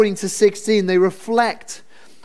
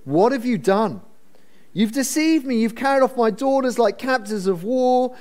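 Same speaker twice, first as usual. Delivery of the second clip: oily; 5 semitones higher than usual. Acted. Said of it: "I wanna say this speech is oily".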